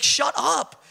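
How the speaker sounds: high mock shut up; buddy brush-off. Buddy waves off his claim in a high mock voice. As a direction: dismiss him. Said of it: "He's like".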